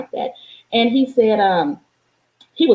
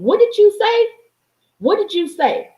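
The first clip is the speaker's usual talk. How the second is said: sharp, high demanding question; stern mother; 10 semitones higher than usual. Retold or imitated. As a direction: confront the child, demand an answer. Mother confronting son.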